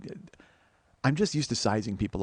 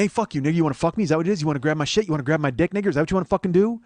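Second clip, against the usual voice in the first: mock aggressive rant, pitched up; retold jawing taunts; 4 semitones higher, 4 dB louder, much faster than usual. Stranger jawing and pointing at him, mock angry rant. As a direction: jab out each question, imitating the aggressor.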